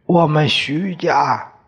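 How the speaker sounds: a hoarse, reedy father telling the family history; hoarse old father. Acted. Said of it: "爹的声音嘶嘶的".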